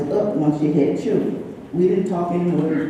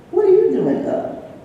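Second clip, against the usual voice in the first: surprised greeting; 8 semitones higher than usual. Retold or imitated. Friend surprised by a late-night call, high-pitched. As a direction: pitch it up high, astonished to hear from them.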